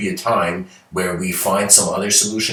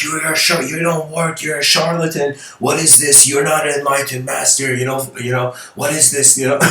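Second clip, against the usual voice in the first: high-pitched indignant tirade; angry accusation; 6 semitones higher than usual. Retold or imitated. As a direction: berate the fake master. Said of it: "The guy is angry".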